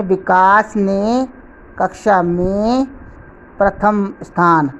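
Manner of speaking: विकास ने and कक्षा में slow, each ending on a rise; stress on each phrase. Shown as a demonstration. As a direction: set विकास ने, कक्षा में, प्रथम स्थान apart with weight on each. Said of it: "पर बल दिया गया है". (विकास ने, कक्षा में, प्रथम स्थान पर अलग-अलग बल)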